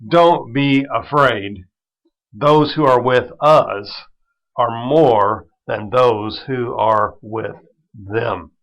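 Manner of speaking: slow, calm and steady; Elisha reassuring. Acted. Prophet calming his frightened servant, slow and reassuring. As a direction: settle his fear, one slow phrase at a time.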